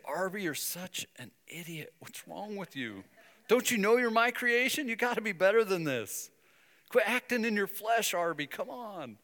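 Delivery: a mock rebuke from God; mock scolding. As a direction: scold like a fed-up father. God scolding Arby, imagined.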